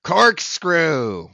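forceful captain's cry; cried out. A narrator's reading. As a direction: burst out with the missing word. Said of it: "cried Ahab".

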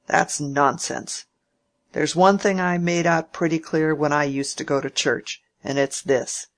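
a hint of a testy old uncle, pushing hard; old Featherstone.

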